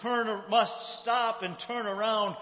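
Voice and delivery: acted-out insistent appeal; insistent plea. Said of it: "listens to her appeal and plea".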